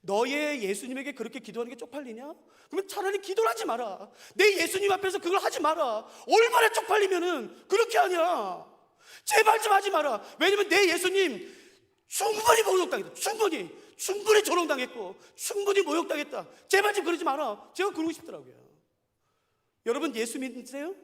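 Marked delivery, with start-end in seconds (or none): 0.0-10.2 loud, higher indignant scolding; inner rebuke. Retold or imitated. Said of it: "제가 속으로 생각했어요". 10.4-17.7 preaching loudly that Jesus was mocked enough; impassioned plea. Real, not acted. Passionate preaching climax.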